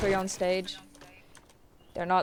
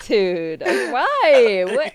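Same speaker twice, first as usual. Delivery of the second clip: laughing; 7 dB louder, much slower than usual. Real, not acted. Teammate reacts to laughing friend.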